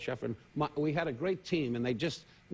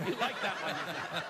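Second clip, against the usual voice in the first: demo laugh; slower than usual. Shown as a demonstration. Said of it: "let me show you laughing".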